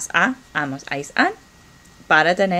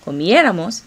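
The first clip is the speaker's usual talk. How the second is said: comiéramos with its accented É pushed louder; accented syllable; 5 dB louder than usual. Shown as a demonstration. Teacher models the verb form for learners, stressing É in comiéramos. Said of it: "con acento".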